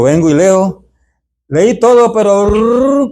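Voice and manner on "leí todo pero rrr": rushed reading. Retold or imitated. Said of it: "como leen los jóvenes".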